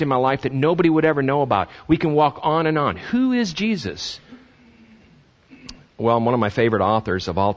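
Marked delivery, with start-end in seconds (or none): 3.0-4.2 a searching plea to the congregation; high slow question. Real, not acted. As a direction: lift the question and hold it. Rhetorical question climax.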